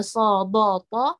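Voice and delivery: "so, do, to" with heavy o vowels; thick letters. Shown as a demonstration. Teacher repeats the itbaq letter examples, thick sound. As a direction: round and thicken "so, do, to". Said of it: "suara tebalnya itu".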